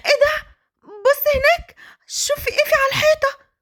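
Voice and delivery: high and bright, pretending to spot something; playful trick. Wife tricks him to escape. (صوت عالٍ بمفاجأة مصطنعة لتشتيته)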